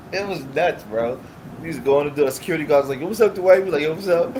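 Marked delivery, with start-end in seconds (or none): 3.0-3.6 loud, high-pitched greeting; booming retold hello, pitched up; imitated hailing. Security guard hails him. 3.8-4.4 raised-pitch casual holler; imitated hello to a familiar guard; retold hailing back.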